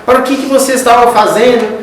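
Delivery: bronca encenada, mais aguda e lenta; imitando briga. Retold or imitated. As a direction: cobre satisfações imitando irmãos brigando. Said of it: "chegam blasfemando, gritando, brigando com ele". (cobrança irritada encenada)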